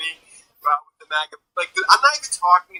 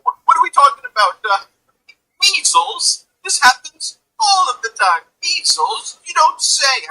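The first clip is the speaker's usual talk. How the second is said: sarcastic; 14 semitones higher than usual. Real, not acted. Sarcastic rant about measles.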